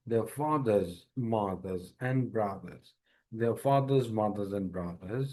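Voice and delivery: mothers and brothers very slow; slow reading demo. Shown as a demonstration. Teacher showing how to read this part. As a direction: read it slowly, word by word. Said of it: "এইভাবে পড়বেন".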